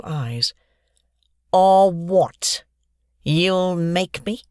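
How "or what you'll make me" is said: taunting bully. Acted.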